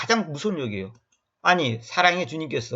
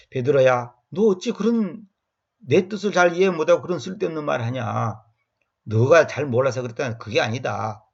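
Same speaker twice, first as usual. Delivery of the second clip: gentle explaining. Pretend. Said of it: "이렇게 조근조근하게 설명하면".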